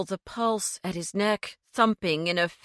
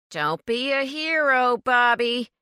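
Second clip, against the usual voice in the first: growled; 4 semitones higher, 4 dB louder than usual. A narrator's reading. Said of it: "Mitch growled".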